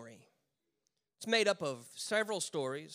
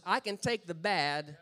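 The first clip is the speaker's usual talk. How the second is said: God insisting; 5 semitones higher, 8 dB louder than usual. Retold or imitated. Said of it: "And God goes".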